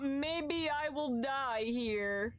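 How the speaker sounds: slow defeated mutter; resigned despair. Real, not acted. Streamer giving up on the game, slow and defeated.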